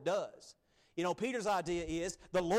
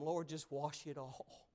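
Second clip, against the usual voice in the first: softer, slowed, heartfelt plea; tender plea; 5 dB quieter than usual. Acted. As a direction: plead quietly to be made whole. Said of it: "Peter said some of the greatest things".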